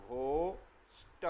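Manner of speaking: घोष्ट said slowly with a breathy gh; घोष्ट with a clear aspirated gh. Shown as a demonstration. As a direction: drag out घोष्ट, gh sound first. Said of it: "तो इसको घ बोलते हैं".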